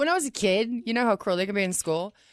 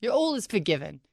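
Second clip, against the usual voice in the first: ordinary delivery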